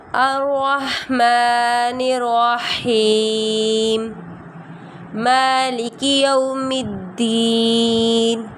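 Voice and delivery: slow, smooth chant without breaks; flowing recitation. Shown as a demonstration. Teacher asking students to recite fluently, flowing chant. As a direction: let the verses run on in one flow. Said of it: "پوری روانگی کے ساتھ پڑھیے".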